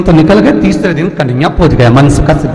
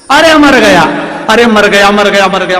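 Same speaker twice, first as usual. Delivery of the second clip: loud, high cry of pain, fading toward the end; husband yelling in pain; 3 semitones higher, 4 dB louder than usual. Acted. Husband struck with a stick at midnight, yelling in pain. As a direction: howl like you've just been clubbed in the dark. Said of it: "पति चिल्लाए".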